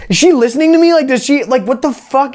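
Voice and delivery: high-pitched, rattled retold panic; acting out bewildered alarm, pitched well up; freaked out. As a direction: replay your freak-out in a rush of questions. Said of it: "Like, I freaked out".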